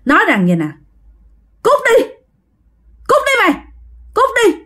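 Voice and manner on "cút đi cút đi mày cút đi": booming man's voice. Acted. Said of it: "giọng ồn ồn rất là lớn".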